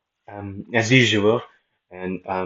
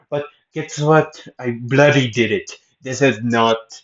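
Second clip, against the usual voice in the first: emphatic British accent, pitched up at the start; 2 semitones higher, 5 dB louder than usual. Shown as a demonstration. Showing listeners the British accent finally works, British accent. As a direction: proudly put on a British accent, slowing down. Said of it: "hard time doing a British accent".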